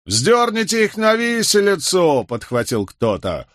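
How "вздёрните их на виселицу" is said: bloodthirsty shout. A narrator's reading. Crowd calls for hanging.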